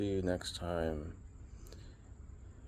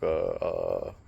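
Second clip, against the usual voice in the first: mock flustered stammer; 11 semitones lower, 5 dB louder than usual. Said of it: "I kinda snapped out of it".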